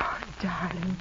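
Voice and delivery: tender murmur. Acted. Woman accepting the proposal, a soft tender murmur. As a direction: melt into the word darling.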